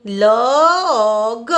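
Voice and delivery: લ and અ stretched out, ending on ગ; sounding out. Shown as a demonstration. Teacher spelling log by sound for learners, sounding out. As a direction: draw out લ, અ, ગ sound by sound. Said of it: "એલનું ઉચ્ચારણ થશે".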